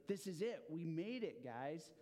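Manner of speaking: lightly acted excited captain, punched opening; rally the crew with a burst of excitement. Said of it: "Captain Cortez is excited".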